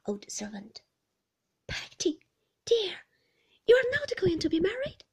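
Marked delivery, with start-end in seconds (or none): 1.7-5.0 high, tender anxious question; gentle, high-voiced mother's query. A narrator's reading. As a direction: ask it fondly, pitched well up. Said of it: "said my mother tenderly".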